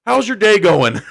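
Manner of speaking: high-pitched, breaking into laughter; laughing quote. Retold or imitated. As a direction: imitate sudden friendliness while cracking up. Laughing at retold friendly turn.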